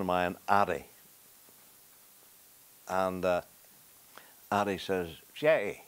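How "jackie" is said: imitated Kells accent, higher call; cousin's Kells accent, lightly imitated. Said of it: "in his lovely Kel's accent".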